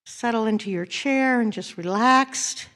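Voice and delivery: gentle prayerful guiding; guided meditation. Acted. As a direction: ease the congregation into stillness.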